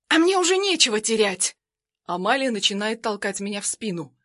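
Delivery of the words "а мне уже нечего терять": high, loud cry of despair; desperate scream. Acted. Armed woman screams at the husband in despair, high and loud. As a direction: shriek that nothing matters now.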